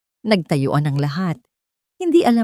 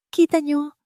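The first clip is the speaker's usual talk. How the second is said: shaky triumph; 10 semitones higher than usual. A narrator's reading. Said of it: "Ang boses ay nanginginig, ngunit may bahid ng tagumpay".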